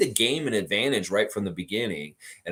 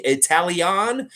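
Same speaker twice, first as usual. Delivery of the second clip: put-on higher, slowed, questioning Italian? in a playful accent; testing the word Italian? slowly, in a hammed-up Italian accent; mock Italian accent; 8 semitones higher, 6 dB louder, much slower than usual. Streamer tries his improving accent for chat, playful mock Italian. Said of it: "Your accent is improving".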